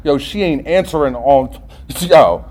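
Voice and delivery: lightly voiced inner defect, starting low and quiet; a hint of a nagging voice in the head; inner defect speaking. Character defect goading him about his wife, lightly voiced and low. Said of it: "my defect comes in and it says".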